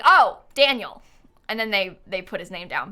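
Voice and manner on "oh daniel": slow, louder imitated realization; mock the penny dropping, drawn out; sudden understanding. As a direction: imitate a listener finally catching the name. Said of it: "And then they're like".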